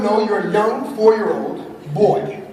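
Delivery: lightly voiced stern dad shutting down play; dad correcting his son's make-believe; old dismissive self. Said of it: "The old him would have told him".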